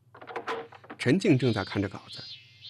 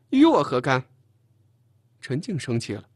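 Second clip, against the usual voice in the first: much louder, higher indignant retort; angry; 3 semitones higher, 7 dB louder than usual. A narrator's reading. Chen Jing offended by his retort, angry comeback. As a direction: throw the words back in anger.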